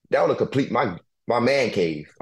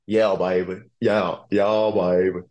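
a light Alabama country drawl; imitating teammate's drawl; 2 semitones lower, slower than usual. Player imitates his Alabama teammate's talk, light country drawl. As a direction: lightly mimic a country kid's easy drawl. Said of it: "You gotta hear him talk".

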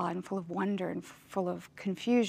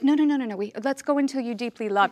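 higher, louder mock plea; playful pleading; 4 semitones higher, 6 dB louder, faster than usual. Actress pleading with her director, louder and higher. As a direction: beg the director for more takes, half laughing. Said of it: "And you're like".

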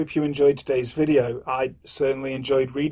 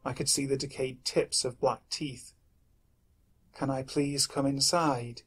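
story narration. A narrator's reading.

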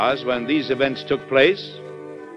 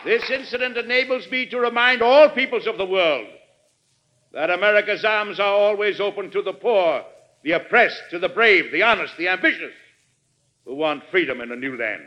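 measured oratory with rolling emphasis; stately speech to Congress; formal presidential address; 5 semitones higher than usual. Acted. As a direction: address a great assembly, pausing between phrases.

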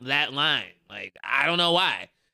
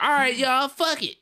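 mock comic exit; 10 semitones higher, 4 dB louder than usual. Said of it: "And he was like".

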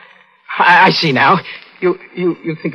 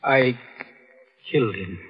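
hushed confession; 3 semitones lower, 5 dB quieter than usual. Acted. Husband confesses murder quietly.

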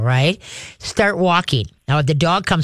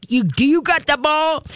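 teasing ball tease; 10 semitones higher than usual. Shown as a demonstration. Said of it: "you know, like".

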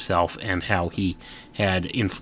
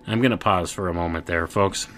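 usual speaking voice

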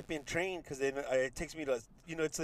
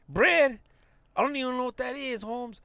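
lightly voiced cholo, a bit higher on "Bread?"; mock cholo reply; 6 semitones higher than usual. Cholo shrugging off a too-polite shopper, lightly mocking. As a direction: toss back a confused street answer. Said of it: "then the cholo's gonna be like".

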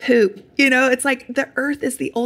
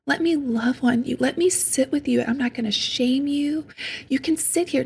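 tender self-talk. Retold or imitated. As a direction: soothe the hurting part like a little sister. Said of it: "and I'll say".

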